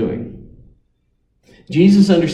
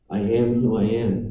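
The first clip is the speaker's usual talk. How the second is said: voice of God; 5 semitones lower, 6 dB quieter than usual. Acted. God speaking at the burning bush.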